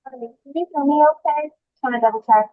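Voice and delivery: hollow, distant bad-mic sound; bottom of a well. Real, not acted. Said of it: "You sound like you're at the bottom of a well".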